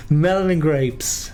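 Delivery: high burst of laughter; laughing. Real, not acted. Laughing over message.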